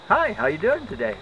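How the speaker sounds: lightly imitated nurse, pitched high; chirpy nurse greeting. Second nurse greeting patient on entering, high chirpy imitation. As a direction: do a sing-song hello, high.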